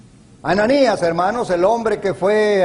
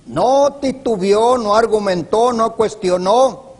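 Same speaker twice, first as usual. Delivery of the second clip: emphatic preaching; 6 semitones higher, 5 dB louder than usual. Real, not acted. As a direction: preach it out, one blow per phrase. Preacher hammers obedience points. (predicando con fuerza, golpeando cada frase)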